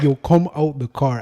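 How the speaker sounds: shouting across the street; retold yell. Yelling at the driver across the street to come out. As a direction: call him out of the car, loud.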